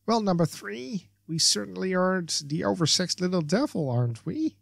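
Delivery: high-pitched mock gushing. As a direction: gush coyly over a flirt. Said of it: "Barbara gushes".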